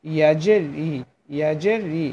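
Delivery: "ইয়াজের ই" from mid-tongue against the palate; teacher modelling "ই" with a y-glide from the palate; ya articulation demo. Shown as a demonstration. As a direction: show the palatal "ই" of "ইয়াজের ই", repeated evenly. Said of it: "তার বরাবর ওপরে তালুর সঙ্গে লাগিয়ে".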